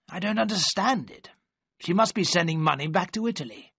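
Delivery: lightly voiced worried godfather delivering bad news; stern godfather. Godfather voiced in read story.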